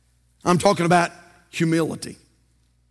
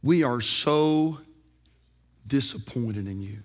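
slow, much softer and lower, heavy with disappointment; disappointed parent; 9 semitones lower, 8 dB quieter, slower than usual. Retold or imitated. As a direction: let the parent's letdown sink in quietly. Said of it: "Or they said this".

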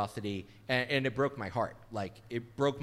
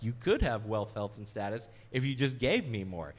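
a touch louder, lower, smooth sales pitch; mocking prosperity preachers, lightly voiced salesman pitch; 4 semitones lower, 3 dB louder than usual. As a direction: lure them in with the promise. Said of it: "usually say".

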